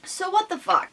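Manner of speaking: high, loud what-the-fuck; startled, loud indignation; exasperated outburst. Real, not acted. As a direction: blurt it out in disbelief. Exasperated reaction to new upload.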